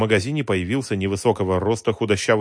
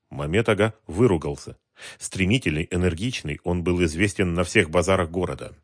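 ordinary talk

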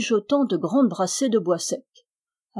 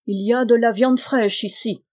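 louder giant's exclamation; exclaiming giant; 3 semitones higher, 5 dB louder than usual. Acted. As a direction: cry it out hungrily. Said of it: "s'écria-t-il".

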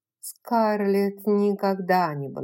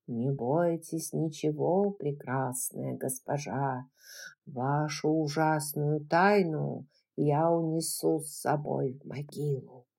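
stage villain whisper; 4 semitones lower, 5 dB quieter than usual. Acted. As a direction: hiss it like a melodrama villain. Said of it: "имитируя театральный шёпот какого-нибудь злодея".

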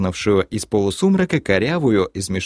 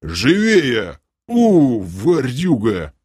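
scolding guard; 3 semitones higher, 3 dB louder, much slower than usual. A narrator's reading. Guard hurrying the limping thief.

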